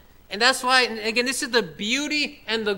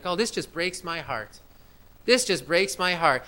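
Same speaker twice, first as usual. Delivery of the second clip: mocking pastor; 4 semitones lower than usual. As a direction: mimic a weepy pastor with disdain. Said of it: "You'll hear pastors talk like this too".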